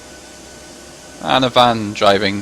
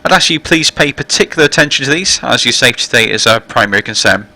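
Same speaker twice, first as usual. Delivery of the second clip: louder, formal cabin address voice; captain's PA announcement; 3 dB louder than usual. Real, not acted. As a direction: welcome passengers over the intercom. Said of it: "it means the passenger announcement now".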